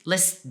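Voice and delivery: "list" stuck on its final consonant; halted one-syllable "list"; failed vowelless attempt. Shown as a demonstration. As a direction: try adding D to "list" with no vowel and stop. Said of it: "I can't do it".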